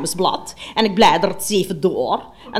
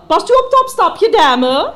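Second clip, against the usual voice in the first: high sugary shop assistant voice, much higher; posh shop lady; 10 semitones higher, 4 dB louder than usual. Retold or imitated. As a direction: play the fawning saleswoman, pitched up high.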